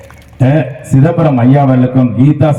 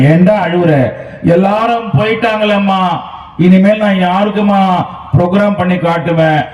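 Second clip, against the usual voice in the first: higher-pitched mock whimper of a hurt boy; child's tearful complaint; 3 semitones higher than usual. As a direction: replay the small boy's sulky sadness, lightly. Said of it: "மறுபடியும் அழுவுற". (அழும் சிறுவனைப் போல லேசான சோகக் குரல்)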